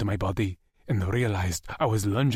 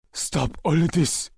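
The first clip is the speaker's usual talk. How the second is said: slow, raised, stern yell; 7 semitones higher, 3 dB louder than usual. A narrator's reading. Wyatt yelling at Lex in the chair, slow raised yell. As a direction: command him to stop. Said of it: "he yelled at me".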